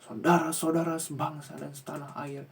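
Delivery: lightly voiced rousing speech opener with rising intonation; a hint of Prabowo's podium voice. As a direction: play a politician stirring the crowd, mildly. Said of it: "Pak Prabowo itu kalau pidato ... suka menaikkan intonasi".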